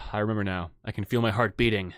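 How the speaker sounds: low, resigned reply; sighing. Acted. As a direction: say it as if after a deep sigh. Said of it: "sighs deeply and says".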